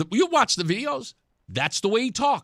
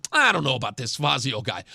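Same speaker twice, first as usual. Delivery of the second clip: mock-skeptical voter voice, lower; doubtful voter; 8 semitones lower than usual. Host mimicking a lukewarm voter, mock doubt. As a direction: imitate an unsure voter, pitched down.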